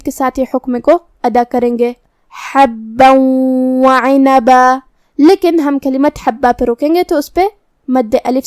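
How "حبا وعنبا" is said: حبا merged into وعنبا with a humming w; idgham with ghunna. Shown as a demonstration. Teacher showing idgham, humming from حبا into وعنبا. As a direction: chant حبا وعنبا, holding a nasal doubled و. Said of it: "تنوین کو واو میں ملا کے غنہ".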